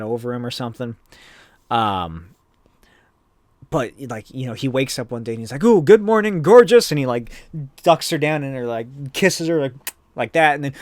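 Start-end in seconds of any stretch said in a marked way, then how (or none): 5.6-6.9 high, loud, gleeful swoon; acting out a lovestruck hero; giddy morning greeting. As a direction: greet a lover with hammed-up delight. Voices gleeful waking hero.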